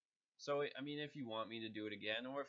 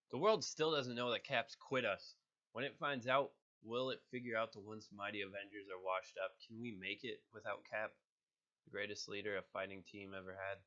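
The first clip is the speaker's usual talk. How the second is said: lightly voiced Hawkeye, louder at the start; Hawkeye lines; 5 dB louder than usual. Voice actor reading Hawkeye lines, rousing. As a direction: read it as a heroic Avenger. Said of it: "Here's another one for Hawkeye".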